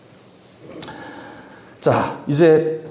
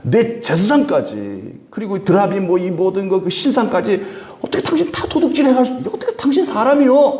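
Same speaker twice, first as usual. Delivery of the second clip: indignant protest; 5 semitones higher than usual. Retold or imitated. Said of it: "하면서 막 따진 거예요".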